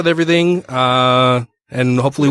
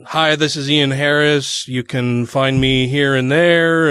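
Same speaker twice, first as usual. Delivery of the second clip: demo promo read; much slower than usual. Shown as a demonstration. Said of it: "something like".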